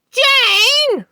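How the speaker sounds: loud, high call across the room. A narrator's reading. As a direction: shout her name to a deaf woman. Husband calls to deaf wife.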